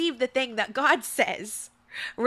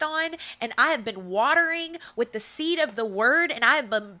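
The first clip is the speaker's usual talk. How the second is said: preaching declaration; 2 semitones higher than usual. Real, not acted. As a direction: declare it like a promise.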